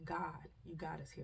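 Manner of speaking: inner prayer. Retold or imitated. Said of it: "And I'm just thinking".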